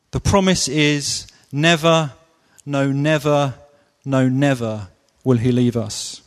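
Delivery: never repeated with rising insistence; emphatic stress on never. Shown as a demonstration. Preacher insisting to the congregation, stress on never. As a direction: lean on every never. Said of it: "a strong, emphatic promise".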